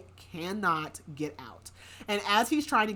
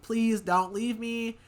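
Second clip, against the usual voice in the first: slow, drawn-out mock plea, a bit higher; retold crying-out plea; 4 semitones higher, 4 dB louder, much slower than usual. Billy cries out as he's left behind, mild plea. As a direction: stretch out an imitated plea, only mildly pleading. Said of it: "crying out".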